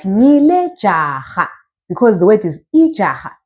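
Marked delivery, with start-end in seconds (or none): 0.0-1.5 "Ngile jaha" slowly drawn out; slow teacher's demo of "Ngile jaha"; model pronunciation. Shown as a demonstration. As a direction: stretch "Ngile jaha" for learners. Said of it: "you are gonna say it like that".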